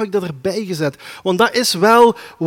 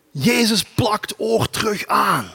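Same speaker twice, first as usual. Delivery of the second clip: mock headline shout; 2 semitones higher, slower than usual. Mock viral video headline.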